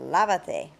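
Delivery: lávate with the first syllable LÁ pushed hard; stress on LÁ. Shown as a demonstration. Teacher showing students the stress, lávate with LÁ hit hard. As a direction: lean on the LÁ in lávate. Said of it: "put the emphasis on".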